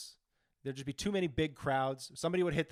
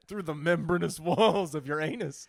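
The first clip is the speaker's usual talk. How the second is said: folksy recording. Pretend. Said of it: "a really folksy recording".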